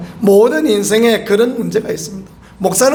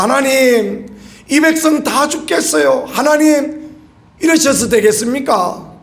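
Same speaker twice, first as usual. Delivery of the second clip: higher-pitched mock plea to God; pleading cry; 4 semitones higher than usual. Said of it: "하나님 앞에 부르짖습니다". (하나님께 부르짖듯 높은 음으로 호소)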